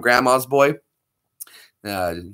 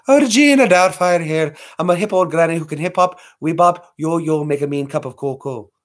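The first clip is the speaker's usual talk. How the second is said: Mrs Doubtfire; 3 semitones higher than usual. Retold or imitated. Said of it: "Missus Doubtfire?".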